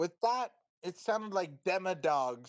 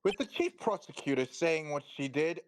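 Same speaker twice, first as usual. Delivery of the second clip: burly police chief. Acted. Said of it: "Oh God, I made him too burly".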